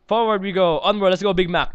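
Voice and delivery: playful "onward" call; rallying call. Pretend. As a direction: lead the charge with mock heroism. Rallying the pony to march.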